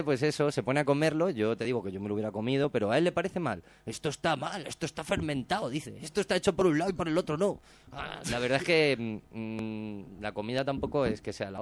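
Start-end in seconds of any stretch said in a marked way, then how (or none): 3.9-7.6 higher, picky complaining chef imitation; mock disgust. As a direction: play him fussy and offended by the dish. Chicote complaining about the food. (chef quisquilloso imitado con asco)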